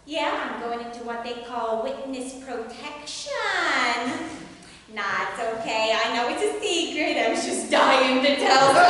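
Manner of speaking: lightly hammed New Jersey housewife accent; bad accent. Housewife confiding about witness protection, bad New Jersey accent. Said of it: "ready for a bad accent".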